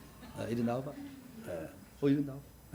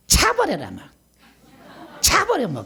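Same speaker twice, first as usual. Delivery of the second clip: high, louder Gyeongsang dialect shout; Gyeongsang accent; 10 semitones higher, 4 dB louder than usual. Shown as a demonstration. Pastor demonstrating Gyeongsang dialect tones to the church. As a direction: fling the words out in Gyeongsang dialect. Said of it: "그러잖아요".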